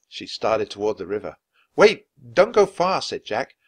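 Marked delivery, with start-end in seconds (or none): 1.8-3.0 calling out. A narrator's reading. Jack calls after Annie.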